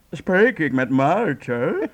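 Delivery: a lightly disguised uncle voice, drawn out very slowly; fake uncle voice. Kasper phoning Maartje pretending to be an uncle, slow disguised voice. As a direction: pretend to be an unknown uncle on the phone, stretching it out. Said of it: "ik zeg dat ik een oom ben".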